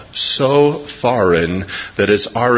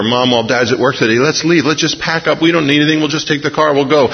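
begging; 5 semitones higher, faster than usual. Retold or imitated. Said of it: "we used to beg her".

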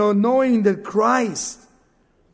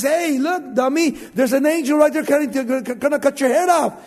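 donkey voice; 4 semitones higher than usual. Retold or imitated. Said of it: "the donkey says".

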